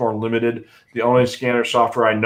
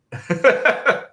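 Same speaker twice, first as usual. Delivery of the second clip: choking cough after swallowing water; sputtering coughing fit; 9 semitones higher than usual. Real, not acted. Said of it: "the water went down the wrong way".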